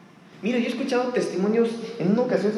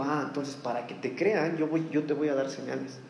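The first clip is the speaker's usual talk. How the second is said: lower, softer, unhurried voice of the Lord; voice of God; 7 semitones lower, 7 dB quieter than usual. Acted. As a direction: speak as God calmly reassuring Moses. Preacher voices God to Moses. (el Señor responde a Moisés con voz grave y suave)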